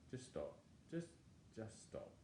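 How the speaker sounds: soft, half-whispered urging; a quiet nudge from within; hushed inner voice. Retold or imitated. Inner voice urging him to stop, in a near whisper.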